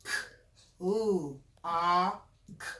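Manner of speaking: clock split into single sounds K, ooh, ah, K; sounding out phonemes. Shown as a demonstration. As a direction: say each sound of clock on its own, with pauses. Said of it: "The smallest sound is a phoneme".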